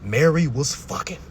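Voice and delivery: slow, spelled-out restatement. Shown as a demonstration. Man repeating his point for offended listeners, deliberately slow. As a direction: spell it out slowly, word by word. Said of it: "let me say it a little slower".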